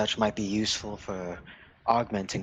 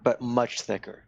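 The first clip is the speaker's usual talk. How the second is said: excited; 4 semitones higher, 5 dB louder than usual. Real, not acted. Excited size comparison.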